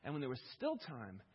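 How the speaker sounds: loud, high, slowing anguished plea to Jesus; impassioned cry. Acted. Grieving believer crying out to the Lord, loud anguished lament. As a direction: hurl the questions at God, building to the last.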